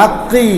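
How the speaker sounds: আক্কি with a long i after the k; আক্কি with an extra drawn vowel; wrong added vowel. Shown as a demonstration. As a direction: end আক্কি on a held ee. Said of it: "এরকম হবে না".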